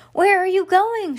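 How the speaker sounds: high, loud shouted question. A narrator's reading. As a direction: call the question out across a distance. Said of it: "shouted Stella".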